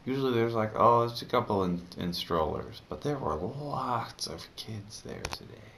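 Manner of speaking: lisping, tongue too sore to move; lisp from bitten tongue. Real, not acted. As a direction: speak carefully around a bitten tongue. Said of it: "I'm talking funny because I'm bit".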